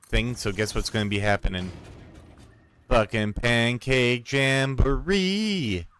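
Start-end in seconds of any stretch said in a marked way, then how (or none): 2.9-5.9 slow, drawn-out proclamation of the name; gleeful announcement. Real, not acted. Announcing his pet event to viewers, slow gleeful proclamation. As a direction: savour every syllable like a fanfare. Triumphant reveal of silly event.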